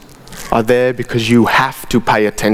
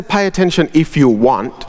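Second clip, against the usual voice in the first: "Pay attention if you want" tossed off lightly; mock relaxed take; casual optional reading. Shown as a demonstration. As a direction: shrug it off as optional. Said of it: "It doesn't say".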